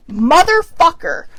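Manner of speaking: loud, slow, drawn-out curse; reliving the rage at the doctor; angry outburst. Retold or imitated. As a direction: spit it out in fury. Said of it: "I was so pissed".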